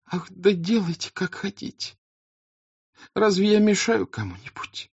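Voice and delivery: high, half-yielding, resentful; grudging countess. Acted. The countess grudgingly giving way to her daughter. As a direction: give in but not yet fully. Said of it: "ещё не вдруг сдаваясь".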